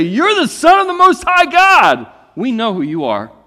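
high, loud shouted demon voice. Acted. Demons cry out to Jesus, high and loud. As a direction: shriek it out like a cornered demon.

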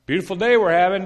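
hammed-up sunny greeting to a silent neighbor; overly cheery call. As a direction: sing it out brightly across the yard. Chirpy small talk to neighbor.

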